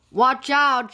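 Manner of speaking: high, loud, urgent call; storybook cry of alarm; warning shout. A narrator's reading. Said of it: "shouted Lissa".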